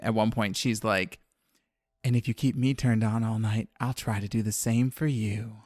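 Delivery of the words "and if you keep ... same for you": sultry voice. Retold or imitated. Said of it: "sultry voice".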